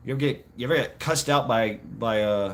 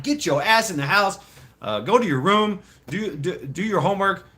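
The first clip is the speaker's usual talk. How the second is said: imitated yelling mom; 4 semitones higher than usual. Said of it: "yelling at him".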